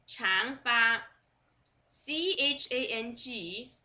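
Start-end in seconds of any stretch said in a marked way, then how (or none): 0.1-1.0 长发 with 长 rising as chang, then fa; second tone. Shown as a demonstration. Teacher showing learners the tone of 长发, 长 rising. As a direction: lift 长 in 长发 upward, second tone. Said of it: "A should be second tone".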